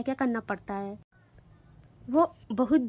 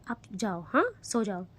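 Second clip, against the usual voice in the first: softer tender hush; tenderly; 3 semitones lower, 3 dB quieter than usual. Acted. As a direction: tuck her back to sleep. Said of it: "बहुत प्यार से".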